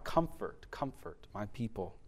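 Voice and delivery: soft and hushed, gentle comfort; hushed, tender voice of comfort; tender divine voice. Acted. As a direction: speak it softly like God consoling. God's voice quoted in sermon.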